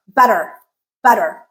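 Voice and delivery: "better" ending in an unstressed er. Shown as a demonstration. Teacher showing learners the unstressed er, careful demonstration. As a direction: say "better" with a weak, r-coloured final er. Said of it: "this is the unstressed er".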